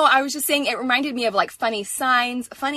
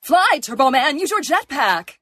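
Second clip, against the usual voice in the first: announcer voice; 2 semitones higher, slower than usual. Retold or imitated. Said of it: "I always just resort to the".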